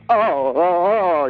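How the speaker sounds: slow, drawn-out moans of grief; hammed-up mournful moaning. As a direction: moan it out, stretching every cry. Caller wailing over dead brother.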